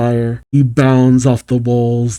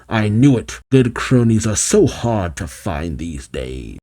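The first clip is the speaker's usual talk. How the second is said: lightly voiced villain, sinking lower; a touch of weary villain grumbling; Eggman; 3 semitones lower, 3 dB quieter than usual. Eggman lamenting his cronies to Fang, lightly grumbling. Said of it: "Eggman says".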